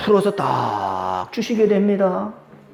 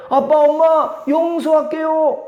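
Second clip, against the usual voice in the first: higher, slow gentle forgiving; son forgiving; 6 semitones higher, slower than usual. Retold or imitated. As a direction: grant forgiveness slowly.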